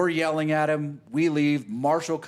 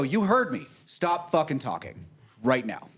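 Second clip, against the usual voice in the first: retold menacing threat. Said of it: "the violence came out in my voice".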